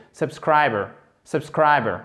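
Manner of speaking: subscriber with strong SCRI, faint first and last syllables; central syllable stressed. Shown as a demonstration. Teacher explains the accented syllable, subscriber stressed on SCRI. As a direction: punch SCRI in subscriber and reduce the rest. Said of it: "c'est celle qui est accentuée".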